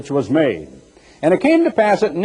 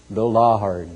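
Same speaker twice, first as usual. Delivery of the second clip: low, drawn-out Southern "Lawd" for the Lord; Southern drawl; 7 semitones lower, 3 dB quieter than usual. Shown as a demonstration. Preacher mimicking a Southern pronunciation of the Lord. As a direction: say "the Lord" as "the Lawd", deep and slow. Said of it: "You probably didn't hear what I said".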